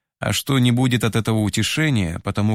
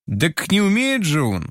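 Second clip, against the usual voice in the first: a sudden higher burst of protest; flaring up; 8 semitones higher than usual. A narrator's reading. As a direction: blurt it out indignantly, pitched higher. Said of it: "вспыхнул Толик". (вспыхнув, выше обычного)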